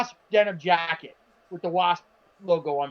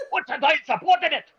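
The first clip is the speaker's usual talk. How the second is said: high-pitched hammed-up teacher shout; a mocking take on an angry substitute; mock teacher yell; 8 semitones higher than usual. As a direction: imitate the sub yelling, voice pitched up. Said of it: "he was yelling it".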